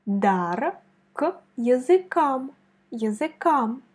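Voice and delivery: языкам with the final A leaned on; stress on the last A. Shown as a demonstration. Teacher showing where языкам is stressed, careful stress. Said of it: "On met l'accent sur A".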